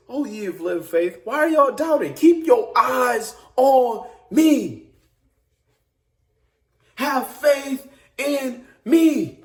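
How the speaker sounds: God calmly calling his people back; gentle voice of God. Acted. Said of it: "all God is saying is".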